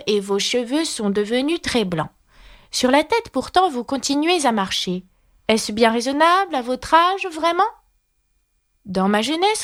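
high-pitched verse recitation; reciting a poem. Acted. (récitation, voix aiguë)

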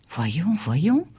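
voyons voyons at normal level, gently rising; repeating, bemused. Acted. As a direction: mull it over half to himself. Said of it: "répétait-il".

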